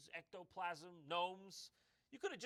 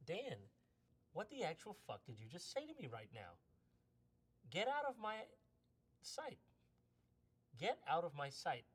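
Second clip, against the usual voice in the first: mock furious. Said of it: "I turned to him and I said".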